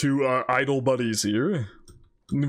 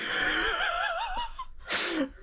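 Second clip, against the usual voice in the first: very high, near-crying laughter; wheezing laugh; 6 dB quieter than usual. Real, not acted. Viewer loses it over the scene, squealing laughter. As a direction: laugh until you squeak.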